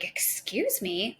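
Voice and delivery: mock-indignant, drawn-out with a rising jump. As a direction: act out an offended parent's reaction. Indignant reaction to kids yelling.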